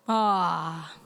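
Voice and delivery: low, falling "ah"; deflated, hammed-up sigh; mock disappointed sigh. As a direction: let out a put-on groan of letdown. Mock letdown at weekend being over.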